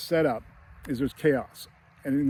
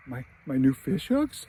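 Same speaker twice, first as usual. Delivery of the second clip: slow, mildly pained question from dad; trying not to get upset. Retold or imitated. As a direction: lightly imitate a dad holding it in. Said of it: "trying not to get upset".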